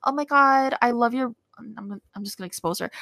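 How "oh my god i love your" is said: higher-pitched mock gushing; gushing praise. Radio prof praising her student, gushing. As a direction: imitate a professor fawning over a student.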